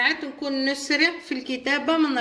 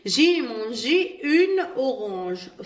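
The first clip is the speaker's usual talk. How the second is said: very slow, each French word laid out clearly; slow model reading; much slower than usual. Shown as a demonstration. Teacher reads the example sentence to pupils, slowly. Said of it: "نشوفوا مثال رقم اثنين".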